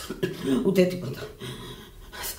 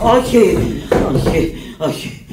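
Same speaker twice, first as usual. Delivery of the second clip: frightened protest; 4 semitones higher than usual. Acted. Refuses hospital stretcher.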